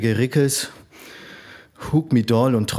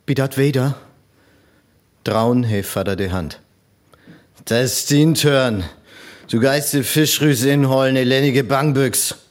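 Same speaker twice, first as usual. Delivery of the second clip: angry father; 2 semitones higher, 3 dB louder than usual. Acted. Father scolding the son.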